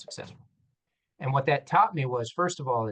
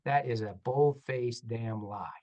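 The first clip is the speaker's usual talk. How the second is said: mock outrage; slower than usual. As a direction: drag out the indignation, then push harder. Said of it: "And I said".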